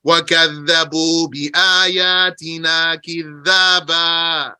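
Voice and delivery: measured chanted recitation of the verse; Quran recitation. Acted. Teacher reciting the verse to his class. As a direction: recite it like scripture.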